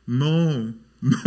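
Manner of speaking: mock English sleep-talking, drawn out; imitated sleep talk. Preacher mimicking his own English dream for laughs, imitated sleep talk. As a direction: mimic someone mumbling "no" in their dreams. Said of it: "영어로 꿈을 꾸시던데".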